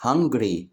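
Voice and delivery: "hungry" as two beats, hun and gry; split into syllables. Shown as a demonstration. Teacher explaining the word divides in two, "hungry" said by syllable. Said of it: "تتقسم لمقطعين".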